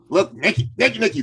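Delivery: high, loud, repeated name-calling; insistent prospect. Retold or imitated. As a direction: imitate a man urgently demanding attention. Acted pestering prospect buttonholing him.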